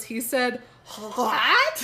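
choked, strangled squeak. Retold or imitated. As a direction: squeeze it out like choking. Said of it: "She was choking, you guys".

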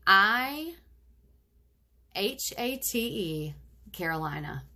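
I, H A T E, spelled letter by letter with pauses; spelled-out HATE. Acted. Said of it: "spelled out for emphasis".

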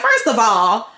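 lightly acted sassy telling-off; a touch of indignant wife; indignant Sarah. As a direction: put them in their place as an offended mother. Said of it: "And she's just like".

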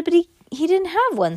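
high-pitched, panicky protest; flustered protest. A narrator's reading. Defending self in allergy panic.

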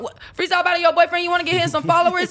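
high, loud incredulous outrage; rant, worked up and disbelieving; outraged rant. Real, not acted. Outraged retelling of the feud.

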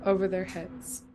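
sick voice, gently reading a poem. Real, not acted. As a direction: read the poem with your sick voice. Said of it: "you have your sexy, sick voice".

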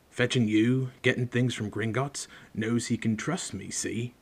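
lightly voiced hearty giant; a hint of rough gamekeeper. Reader voices Hagrid.

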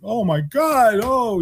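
high, loud oh my God; light up as the name clicks; delighted recognition. Retold or imitated. Manager hears the mom's name, high delighted exclamation.

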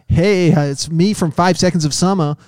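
mock American boy-band voice; American accent. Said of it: "got an American accent now".

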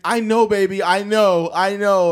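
loud, high mock-weepy reassurance; pleading, emotional put-on voice; imitated tearful comforting. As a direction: play an overcome parent soothing a child. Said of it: "And they were crying".

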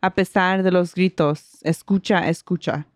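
measured Spanish poem recital; poem reading. Acted. Podcaster reading Spanish poem to co-host, recital. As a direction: read the verses aloud in a steady, sustained flow.

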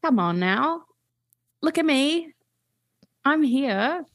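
high, pleading, slightly British character voice; a forgotten creature insisting it still exists; self-conscious extinct lizard. Pretend. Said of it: "give us a little tidbit of the voice".

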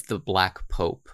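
low, slow, ominous "the Black Pope"; dark and ominous. Shown as a demonstration. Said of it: "the Black Pope is supposed to sound dark and ominous".

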